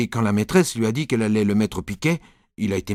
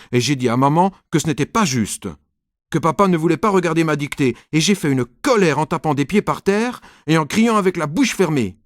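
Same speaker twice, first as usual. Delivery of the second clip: louder, higher rising indignation; agitated narration; 5 semitones higher, 4 dB louder than usual. A narrator's reading. Nicolas complains to mom about dad, rising agitation. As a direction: tell it all worked up.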